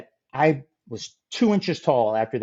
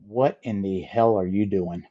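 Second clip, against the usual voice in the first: lightly voiced stern boss, a hint of disbelief; mock stern demand; 5 semitones lower than usual. Jack, seeing Scott wrapped in thongs, a hint of stern disbelief. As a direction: ask it like a man who can't believe his eyes.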